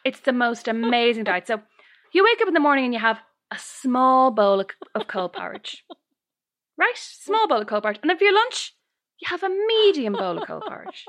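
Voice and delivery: high, earnest mock storyteller; imitating Mary the leader. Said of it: "And she goes".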